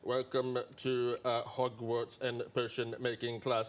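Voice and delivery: slow, low, soft Snape drawl; low, slow Hogwarts teacher voice; Snape impression. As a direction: drag every word out like a sneering potions master. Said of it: "Hogwarts potion class".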